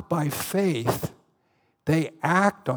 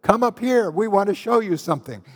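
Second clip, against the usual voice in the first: higher, louder sly mock invitation; hammed-up enemy taunt; taunting Philistines; 5 semitones higher, 5 dB louder than usual. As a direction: lure them up with a mocking call. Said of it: "the old Philistine trick".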